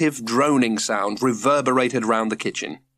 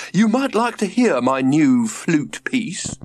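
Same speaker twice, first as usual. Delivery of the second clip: hopefully; 6 semitones higher, 4 dB louder, slower than usual. A narrator's reading. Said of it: "said George hopefully".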